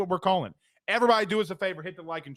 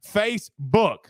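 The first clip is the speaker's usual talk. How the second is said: Facebook lifted higher, teasing; playful higher Facebook; playful repeat; 4 semitones higher, slower than usual. Shown as a demonstration. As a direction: sing Facebook up a little, playful.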